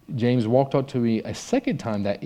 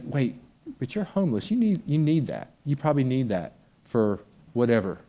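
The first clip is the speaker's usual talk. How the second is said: higher, puzzled objection; surprised protest; 3 semitones higher than usual. Retold or imitated. Student objecting to the homeless man, surprised and higher. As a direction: protest kindly that he needs it more. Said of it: "it's like saying".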